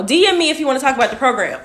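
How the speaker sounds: quick laughing brush-off. Real, not acted. Live streamer dismissing an off-topic commenter, laughing.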